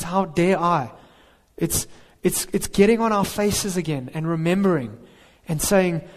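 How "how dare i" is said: humble awe. Retold or imitated. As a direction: ask it humbly, the right attitude.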